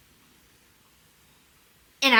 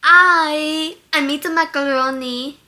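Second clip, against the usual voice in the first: louder, slightly higher Russian accent; Yelena; 3 semitones higher, 7 dB louder than usual. Shown as a demonstration. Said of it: "And that's Yelena".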